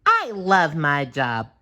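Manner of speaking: high, slow, squeaky cartoon voice; SpongeBob voice. A narrator's reading. SpongeBob loving his job, high slow squeaky voice. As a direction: savour each word in a squeaky voice.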